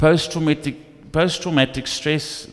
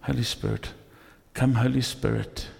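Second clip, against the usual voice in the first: quiet prayer; 6 dB quieter than usual. Retold or imitated. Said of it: "I pray more".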